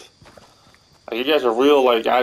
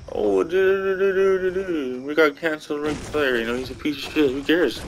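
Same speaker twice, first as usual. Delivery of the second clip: mocking impression; 5 semitones higher than usual. Mocking wrestling YouTubers.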